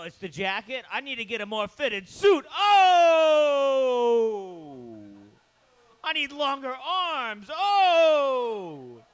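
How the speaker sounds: loud squawking outbursts of Oh, a hammed-up Gottfried; Gilbert Gottfried impression. Doing Gilbert Gottfried's bit for the crowd, loud squawky impression. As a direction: shriek the Ohs over comic complaints. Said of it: "It's Gilbert Gottfried does".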